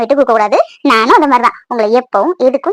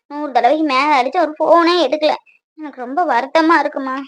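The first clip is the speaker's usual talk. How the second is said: quiet sorrow; 6 dB quieter than usual. Acted. Daughter sad, husband ignoring calls.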